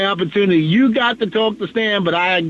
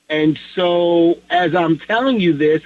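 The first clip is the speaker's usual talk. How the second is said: normal talking voice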